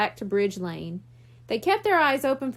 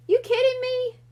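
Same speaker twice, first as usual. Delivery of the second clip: disbelief; 11 semitones higher, 3 dB louder than usual. Acted. Bucky surprised by mayor claim.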